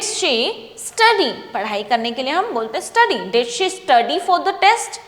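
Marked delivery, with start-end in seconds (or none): 3.3-5.0 very slow, a little higher, rising at the end; slow model reading. Shown as a demonstration. Teacher modelling a past question for students, slow and rising. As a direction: spell the question out slowly for learners. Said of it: "तो did she".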